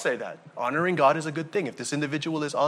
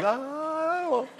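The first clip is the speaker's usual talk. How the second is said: laughing, much higher doubtful voice; sheepish guys; 12 semitones higher, 5 dB quieter than usual. Retold or imitated. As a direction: play the men shrugging it off. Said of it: "the guys are like".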